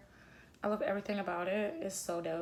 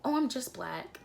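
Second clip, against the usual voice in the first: higher-pitched imitation of disappointment; mock disappointment; 4 semitones higher than usual. Mimicking what black people say, mock disappointment. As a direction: mimic someone apologetic about who they are. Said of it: "you're disappointed".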